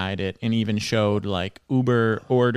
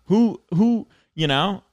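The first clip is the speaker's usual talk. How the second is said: laughing; 9 semitones higher, 5 dB louder, much slower than usual. Real, not acted. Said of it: "laughing over the mystery".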